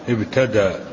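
"ابتدأ" ending in an open long a, no glottal stop; without hamza. Shown as a demonstration. Teacher showing the sheikhs' reading, without hamza. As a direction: say "ابتدأ" as ibtada, dropping the hamza. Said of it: "بدون همز".

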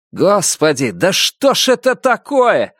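high, slow exclamation; a convict cries out in dismay; exasperated voice in crowd. A narrator's reading. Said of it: "раздался чей-то голос в толпе".

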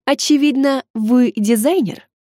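restrained growl. Acted. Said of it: "сдержанно прорычала она".

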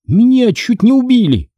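high outraged cry; indignant outburst, voice jumping up. A narrator's reading. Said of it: "Возмущённая Одри".

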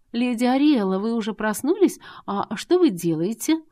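startled maid. Acted. Maid finds her lady on the floor, startled. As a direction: gasp it out, startled and unsure.

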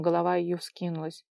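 ordinary delivery

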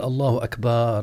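أكبر ending in a long "baar"; wrong long vowel. Shown as a demonstration. Teacher warns against this takbir, stretched akbaar. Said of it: "فلا يقال".

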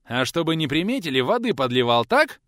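a touch of stern triumph; pressing interrogation. Acted. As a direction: corner him with the question. Teacher interrogates the boy.

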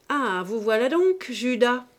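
apostrophe forte et accusatrice, plus fort; accusation. A narrator's reading. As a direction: lance « Judas » comme une insulte. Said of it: "dit Saccard". (accusation indignée, plus forte)

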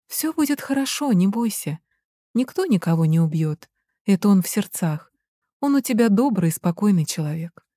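put-on calming a scared pregnant girl; reassuring. Marina soothes frightened girl. (успокаивающе, мягко)

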